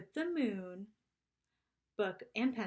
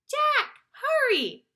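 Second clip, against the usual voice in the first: much higher, louder urgent shout; urgent call; 12 dB louder, much slower than usual. A narrator's reading. Annie calls Jack urgently from the airlock. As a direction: call him over, hurry.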